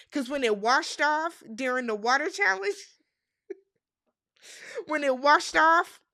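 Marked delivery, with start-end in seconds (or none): 3.5-6.0 laughing. Real, not acted. Laughing retelling of hair fail.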